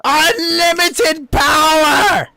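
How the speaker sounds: high, slow, cackling villain shout; evil emperor voice. Acted. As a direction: bellow it like a mad Sith lord. Force lightning Star Wars reference.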